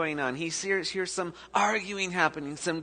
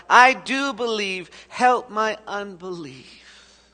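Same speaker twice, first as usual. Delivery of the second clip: crying out; 2 semitones higher, 5 dB louder, slower than usual. Acted. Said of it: "the father of the boy cried out".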